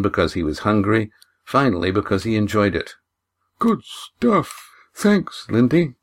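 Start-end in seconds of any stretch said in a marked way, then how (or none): 3.6-5.9 mumbled through a mouthful; mouth full. Acted. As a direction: talk round a bite of food. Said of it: "he mumbled through a mouthful".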